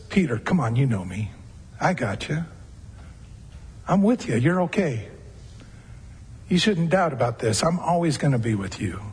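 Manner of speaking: low, soft reassurance; lightly voiced tender Jesus reassuring Peter; gentle voice. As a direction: speak like a father calming his child. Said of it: "It's that gentle voice".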